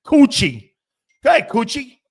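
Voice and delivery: loud, high playful call; calling out playfully. Real, not acted. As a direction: sing out the name teasingly. Calling out a funny chat name.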